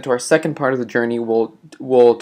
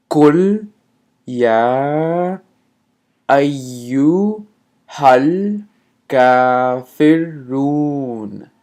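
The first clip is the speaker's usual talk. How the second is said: قل يا أيها الكافرون with pauses between each word; word by word slowly; 4 dB louder, slower than usual. Shown as a demonstration. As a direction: separate every word with a pause. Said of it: "I'm gonna say that slowly".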